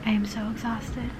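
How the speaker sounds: quiet whisper so as not to wake the roommate; hushed late-night whisper. Real, not acted. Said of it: "which is why I'm trying to be quiet".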